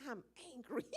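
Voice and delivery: imitating a kid through a laugh; giggling as the child speaks; aunt quoting the five-year-old while laughing; laughing kid quote. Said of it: "he was like".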